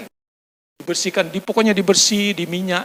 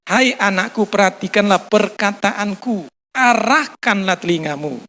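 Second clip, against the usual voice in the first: slow, measured verse reading; preacher reading Proverbs to the congregation, measured; scripture reading; 3 dB louder, slower than usual. Acted. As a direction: read the verse slowly and solemnly. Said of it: "dia bilang tadi di ayatnya".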